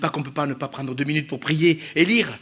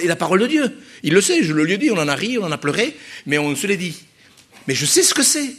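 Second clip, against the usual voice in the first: ordinary talk, nothing marked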